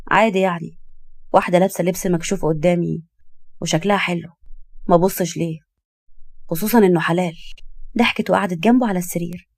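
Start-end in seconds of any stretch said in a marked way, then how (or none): 0.1-7.4 slightly lowered, cool male-character voice; understated flirtation, coolly delivered; nonchalant husband. Acted. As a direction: shrug it off matter-of-factly. Husband answers wife nonchalantly.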